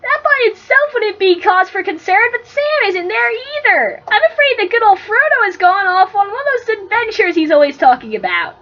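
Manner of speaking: worried young hobbit reporting bad news; lightly played frantic Merry; lightly voiced Merry. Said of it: "You be Merry".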